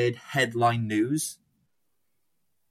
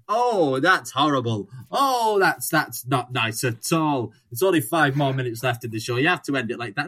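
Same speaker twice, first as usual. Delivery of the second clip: mock-shocked host; 4 dB louder than usual. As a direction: scold them like a flustered host caught out on air. Shocked host scolds the band.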